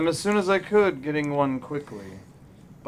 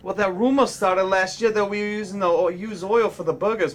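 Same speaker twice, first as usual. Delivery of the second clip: put-on mechanic with a Boston accent; 4 semitones higher than usual. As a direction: explain it like a Boston grease monkey. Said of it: "I'll do a Boston Mechanic to read it".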